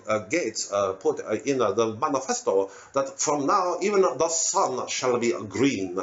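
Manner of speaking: halting put-on orator, slowing down; green visionary character. Praising a green manifesto, halting then slow proclamation.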